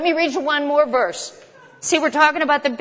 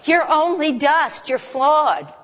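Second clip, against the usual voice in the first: laughing through it; 4 semitones higher, slower than usual. Shown as a demonstration. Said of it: "Maybe I'll say it that way".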